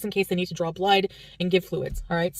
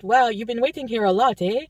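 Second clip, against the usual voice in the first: put-on French Canadian accent; 3 semitones higher, 3 dB louder than usual. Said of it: "try to imitate it".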